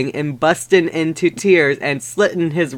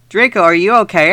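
gothic voice; 3 semitones higher, much faster than usual. Retold or imitated. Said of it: "I asked in a gothic voice".

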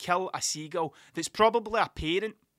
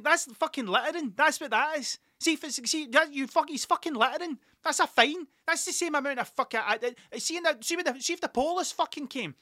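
high-pitched comic indignation; outraged ranting; 8 semitones higher than usual. Retold or imitated. Sticker guy accusing the duck man of littering, outraged. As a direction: argue the case in a high, exasperated voice.

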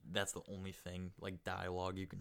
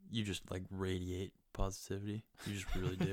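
mock-sincere compliment, barely held straight; sarcastic praise. Teasing a gloomy friend about positivity, mildly sarcastic. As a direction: praise them with understated sarcasm. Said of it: "Can't even say that with a straight face".

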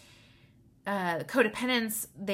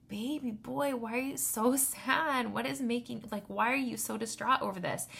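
tender mom to son; 5 semitones higher than usual. Retold or imitated. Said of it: "And I'm like".

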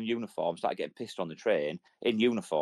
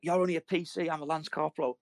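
pompous lance corporal; 6 semitones higher than usual. Retold or imitated. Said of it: "he's like".

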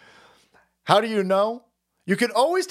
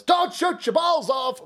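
higher, slow callout; 11 semitones higher, slower than usual. Real, not acted. Calling out to the boys.

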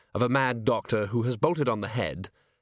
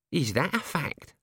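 brightening up; 6 semitones higher than usual. A narrator's reading. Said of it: "brightening up a bit".

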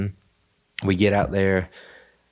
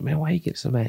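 mocking question; 9 semitones higher than usual. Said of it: "I was like".

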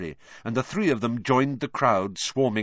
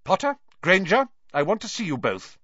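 high, raised summoning voice; calling out; 10 semitones higher, 5 dB louder than usual. A narrator's reading. Professor McGonagall summoning Potter and Granger across the crowd, calling out. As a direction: call over the heads of a crowd. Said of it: "was calling over the heads of the crowd".

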